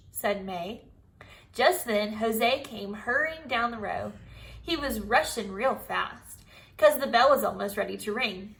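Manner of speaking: put-on lively storybook read-aloud for kids; reading to children. A narrator's reading. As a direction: tell it like a chapter book to the class. Teacher reads Junie B story aloud.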